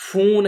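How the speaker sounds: فون with the و held as a long oo; long drawn-out vowel. Shown as a demonstration. Teacher showing students wao maroof, long drawn-out vowel. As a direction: draw out the oo in فون. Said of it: "کھینچ کر پڑھی جائے".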